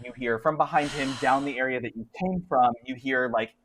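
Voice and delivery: ordinary talk, nothing marked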